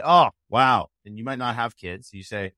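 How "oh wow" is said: mock wow.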